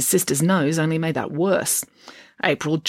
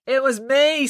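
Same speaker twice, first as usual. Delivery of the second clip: put-on pinched nasal girl voice; 9 semitones higher, slower than usual. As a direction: say it through the nose. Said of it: "with her nasal voice".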